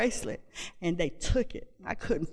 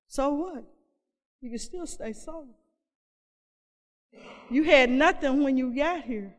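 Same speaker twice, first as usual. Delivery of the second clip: calm reassuring voice; 2 semitones higher than usual. Retold or imitated. Calming inner voice telling her not to fear jail. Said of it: "these voices are saying".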